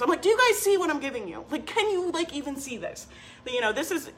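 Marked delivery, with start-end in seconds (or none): 0.2-3.1 excited launch pitch. Retold or imitated. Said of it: "that's how I feel when we launch".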